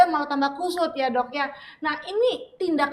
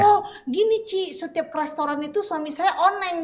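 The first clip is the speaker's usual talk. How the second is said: complaining wife; 3 semitones higher than usual. Retold or imitated. Wife telling the host about her husband, mock complaint. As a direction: imitate a wife confiding a complaint.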